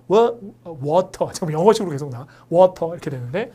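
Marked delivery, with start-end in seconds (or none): 0.1-1.3 "워터" the Korean way; Korean-style reading. Shown as a demonstration. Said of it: "우리식으로 하면". 2.5-2.9 "워터" as a Korean loanword, t unflapped; Korean-style reading. Shown as a demonstration. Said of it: "우리식으로 하면".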